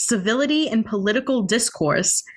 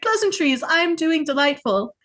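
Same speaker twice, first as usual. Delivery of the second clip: mock posh; 8 semitones higher than usual. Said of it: "I'll be like".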